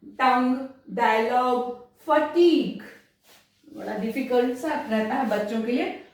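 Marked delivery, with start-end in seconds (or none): 0.0-2.8 टंग, डायलॉग, फटीग each ending on a hard g. Shown as a demonstration. Teacher repeating the examples clearly for students. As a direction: clip फटीग off on its g. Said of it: "वो ग pronounce होगा".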